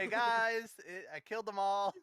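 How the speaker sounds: lightly voiced boastful buddy; smug teammate voice. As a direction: brag casually about the massacre. Impersonating the lucky teammate.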